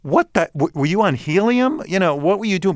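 mock helium voice. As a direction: mimic listeners joking about helium. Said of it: "people hear my old tapes and they go".

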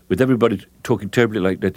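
fast, clipped mock-British delivery; clipped British speech. Shown as a demonstration. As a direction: rattle it off like a clipped British actor. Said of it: "the British clipped away".

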